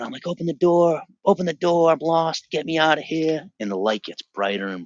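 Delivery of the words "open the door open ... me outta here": high, loud pleading yell; desperate yell for help behind a door. Retold or imitated. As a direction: shout to be let out of the dark. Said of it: "I'm yelling loud".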